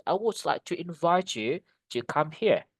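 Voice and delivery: "invite" weighted on "vite" mid-sentence; stress on second syllable. Shown as a demonstration. Teacher giving the full example, stress on "vite" in "invite". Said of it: "penekanannya di suku kata yang kedua".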